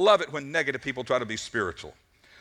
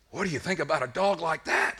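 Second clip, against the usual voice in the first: exasperated, eager for a reaction. Acted. Optimist fed up with the silent pessimist, exasperated. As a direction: demand a reaction, at wit's end. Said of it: "can't stand it any longer".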